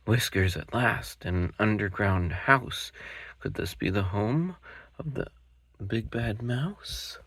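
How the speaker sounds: a cub sure he's found the mouse; Gruffalo's child. Acted. Child finds a track.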